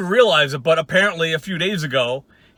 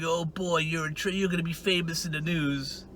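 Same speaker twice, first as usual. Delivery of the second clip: mock threat; 10 dB quieter than usual. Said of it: "say a little threatening thing".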